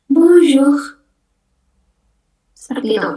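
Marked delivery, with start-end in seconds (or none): 0.1-1.0 bonjour, R akhir nyaris tak terdengar; bonjour, R di ujung dilembutkan; faint final R. Shown as a demonstration. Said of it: "huruf R terakhir itu dibacanya cuma samar-samar aja". (bonjour dengan R samar)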